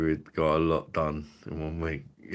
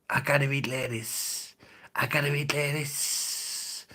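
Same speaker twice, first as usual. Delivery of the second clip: higher-pitched mock character voice; silly put-on voice; 6 semitones higher than usual. Playing a daft character between greetings, high put-on voice. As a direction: chant it in a high daft voice, slowing on the repeat.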